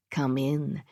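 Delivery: purring. Acted. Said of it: "she purred".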